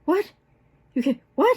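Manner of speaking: mock incredulous repeated what. Defensive partner acts shocked at being questioned, mock incredulous. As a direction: feign disbelief, lightly. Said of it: "they're incredulous".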